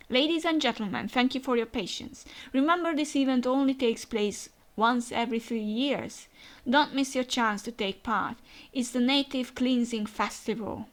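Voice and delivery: lightly projected, formal announcement; event announcer. Acted. Host announcing the festival to the crowd, lightly played announcer.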